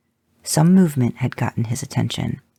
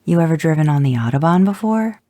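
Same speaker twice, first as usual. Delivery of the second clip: higher, louder sassy retort; sassy comeback; 5 semitones higher, 4 dB louder than usual. Acted. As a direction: fire it back cheekily. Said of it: "You sassed back".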